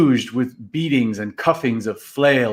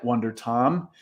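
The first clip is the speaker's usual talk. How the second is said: plain reading voice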